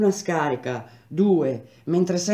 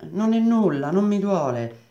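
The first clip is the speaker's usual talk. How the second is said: insistenza; 5 semitones higher, 4 dB louder than usual. A narrator's reading.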